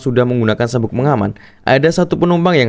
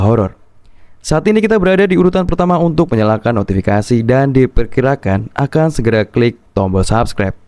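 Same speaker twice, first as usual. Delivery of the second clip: flight attendant announcement. Acted. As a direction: parody of an airline cabin announcement. Channel intro as flight announcement. (gaya pengumuman pramugari)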